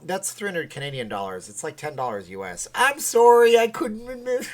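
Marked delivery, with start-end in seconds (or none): 2.7-4.5 very high, squeaky mock Japanese girl; hammed-up Japanese girl falsetto. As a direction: put on a high-pitched Japanese girl apology, starting loud. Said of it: "I turned into a, like, a Japanese girl".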